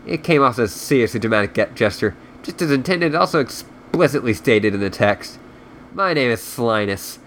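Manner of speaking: reading a novel aloud; story narration. A narrator's reading. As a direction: narrate the book in storyteller mode. Reads the book aloud.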